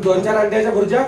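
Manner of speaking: joking with a laugh about egg bhurji; teasing the class with a laugh; laughing tease. Real, not acted. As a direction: laugh through the teasing question.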